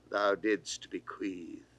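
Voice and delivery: usual speaking voice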